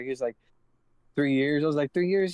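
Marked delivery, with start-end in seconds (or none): 1.2-1.6 loud, matter-of-fact reply; blurted statement, falling close; retold answer. Retold answer, then repeated back. 1.9-2.3 loud, higher disbelieving question; raised-pitch mock astonishment; incredulous echo. Throws the answer back in disbelief.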